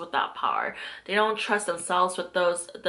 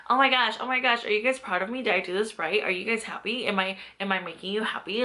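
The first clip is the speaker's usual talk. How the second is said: anxious lost dog; 2 semitones higher, faster than usual. Retold or imitated. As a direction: beg for approval like a lost puppy. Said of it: "I was like a lost dog".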